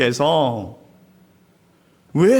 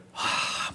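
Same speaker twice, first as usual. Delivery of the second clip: breathy sob; 12 dB quieter than usual. Retold or imitated. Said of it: "막 운다면".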